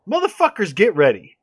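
sudden high shout of warning; warning call. Real, not acted. Podcast guest warning listeners, a high loud shout. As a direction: yell it at the audience.

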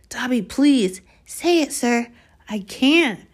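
high, loud frightened begging; desperate pleading. Acted. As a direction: beg as if your life depends on it. Harry begging again.

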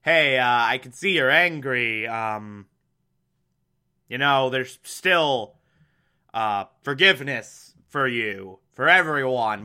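low, measured placating reply; lightly voiced pastor. Reviewer voicing a pastor forgiving an angry father, lightly placating. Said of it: "takes the stance of".

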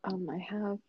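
whispering. Real, not acted. Whispered line.

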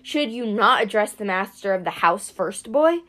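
stern god voice, unlike the narrator's own; a lightly voiced haughty king of gods; Zeus. Zeus scolds the kneeling boy, haughty god voice. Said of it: "Zeus spoke".

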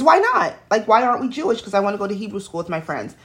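put-on child pestering her mother; insistent child. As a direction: whine it like a nine-year-old. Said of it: "my next question is".

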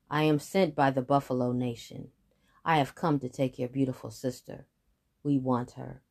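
low, deep buffalo voice; big buffalo voice. Acted.

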